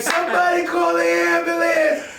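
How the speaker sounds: high panicked shout for an ambulance; frantic cry for help at the door. Retold or imitated. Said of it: "be like".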